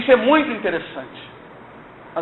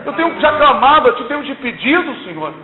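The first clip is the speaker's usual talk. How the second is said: higher, urgent plea asking how long; higher pleading prayer; imploring prayer; 4 semitones higher than usual. Retold or imitated. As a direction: cry out to the Lord in rising hope. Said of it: "Eu falo assim com o Senhor".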